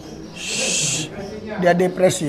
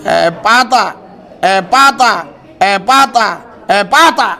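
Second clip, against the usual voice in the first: commanding call; 4 dB louder, slower than usual. Real, not acted. Repeated healing command.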